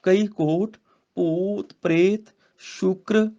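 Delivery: slow, deliberate recital with long pauses; slow scripture recitation. Shown as a demonstration. Teacher modelling the verse for students, slow and deliberate. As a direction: lay out each phrase slowly.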